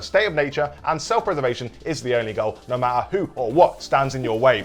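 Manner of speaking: dramatic trailer narration. Acted. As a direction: read it like a movie trailer. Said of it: "Very dramatic".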